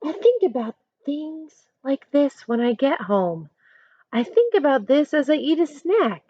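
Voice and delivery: put-on lively picture-book narration for kids; reading a story aloud. A narrator's reading. Teacher reading a picture book to her class, storytelling voice. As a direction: read it as Amanda telling her own story.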